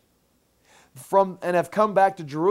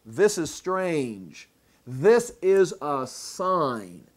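slow awed realisation; much slower than usual. Retold or imitated. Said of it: "By this time they know".

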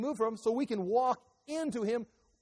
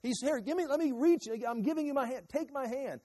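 raised, pleading call to come closer; God calling out; 4 semitones higher than usual. Acted. Preacher voicing God calling to people: pleading call. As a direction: reach out and beg them to take your hand. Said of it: "he's calling them, he's shining the light".

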